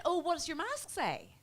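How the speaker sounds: high, put-on lady's voice; dentist lady. Dentist lady asking about the mask, high put-on voice. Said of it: "she said".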